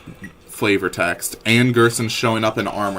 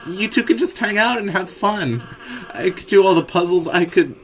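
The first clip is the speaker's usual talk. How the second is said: higher, anxious begging; pleading Ralsei; 5 semitones higher, 3 dB louder than usual. Acted. Ralsei begs to go ahead alone, higher and anxious. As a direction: beg to do all the work.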